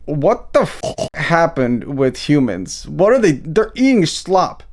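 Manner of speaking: lightly voiced pig with an odd accent; talking pig. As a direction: play a baffled pig, slightly put-on voice. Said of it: "That's the pig talking".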